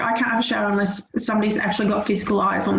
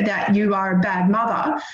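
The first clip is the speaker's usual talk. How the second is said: usual speaking voice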